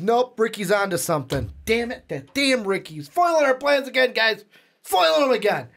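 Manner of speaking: put-on high, hammy Boston accent as Feige; lightly voiced Boston grumble. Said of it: "why are we giving him these accents?".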